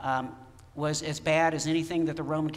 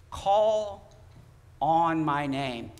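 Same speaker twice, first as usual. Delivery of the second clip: 1 call from beyond; 4 dB louder, much slower than usual. Acted. Preacher echoing the heard voice.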